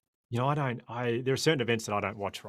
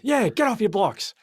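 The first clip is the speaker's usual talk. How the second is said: loud, high, drawn-out shouted order; yelling; 12 semitones higher, 9 dB louder, slower than usual. Retold or imitated. Official answering the runner back, yelling. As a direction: bellow it slowly, imitating a bossy official. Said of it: "You don't need to yell at me".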